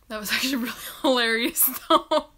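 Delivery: fast whispered giggle; laughing whisper. Real, not acted. Still laughing about fall.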